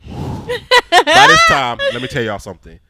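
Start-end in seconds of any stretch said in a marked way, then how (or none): 0.1-1.8 high, slow, breaking into laughter; laughing through it. Real, not acted. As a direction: say it while cracking up.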